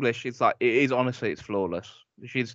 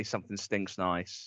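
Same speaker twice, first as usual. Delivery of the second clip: soft, low and slow; wistful quote; 6 semitones lower, 10 dB quieter, slower than usual. Retold or imitated. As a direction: say it slowly, fondly missing it. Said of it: "I wish she would say".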